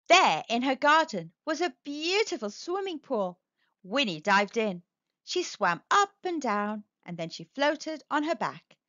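lively storybook reading voice; a picture book read aloud; story narration. Acted. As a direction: read it to children, bright and animated.

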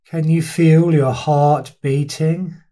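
unhurried body-scan guidance with long pauses between instructions; guided meditation. Real, not acted. Teacher leading listeners through a body scan, guided meditation. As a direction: guide listeners through their body, leaving space after each phrase.

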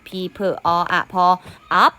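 letter sounds one by one, then "up"; sounding out. Shown as a demonstration. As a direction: blend "P เพอ อ อะ พอ" into "up". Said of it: "ตัวนี้ก็อ่านเป็น".

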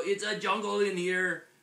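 high, loud exclamation of wonder; amazed. A narrator's reading. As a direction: marvel aloud as the story kitten. Kitten amazed by jungle.

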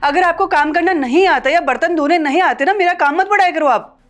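high, sharp rebuke, rising as she goes; angry scolding. Acted. Daughter-in-law scolds mother-in-law over dishes, angry and rising. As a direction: scold her for sloppy dishwashing.

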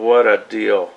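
usual speaking voice

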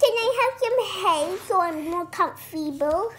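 a lightly squeaky toy crab request; little crab voice. Acted. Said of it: "this is the little crab".

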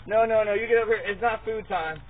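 loud, urgent correction; firm dog command. Real, not acted. Owner to dog when it's not food time, loud and firm. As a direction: call the dog off sharply.

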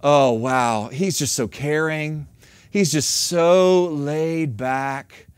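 gently mocking a smitten wife; starry-eyed admiration. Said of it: "our attitude goes from".

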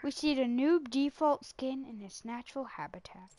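whispered wildlife narrator; hushed documentary whisper; nature documentary. Pretend.

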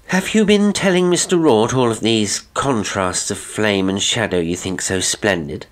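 forced brightness, pitched too high; slightly too high. A narrator's reading. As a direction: start high and loud, overdoing the confidence. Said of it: "her voice just one half note too high".

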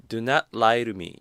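slow model sentence. Shown as a demonstration. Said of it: "조금 쪼개서 이야기하면 조금 더 강조를".

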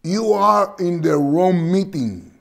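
imitating the candidate answering the heckler; Kamala Harris retort. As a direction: throw the line back at the heckler. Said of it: "le contesta".

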